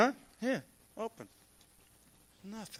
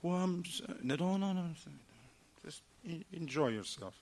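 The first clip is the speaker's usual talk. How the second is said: soft reassurance; 12 dB quieter than usual. Retold or imitated. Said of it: "just tell her like this".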